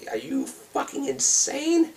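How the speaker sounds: slow high-pitched are you insane; incredulous outburst. Real, not acted. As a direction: stretch it up in disbelief. Incredulous rant at imagined skeptics.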